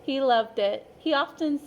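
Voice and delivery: lively, expressive picture-book narration; storyteller voice for a class of young children; reading to children. A narrator's reading. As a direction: read it like story time for little kids. Teacher reads picture book aloud.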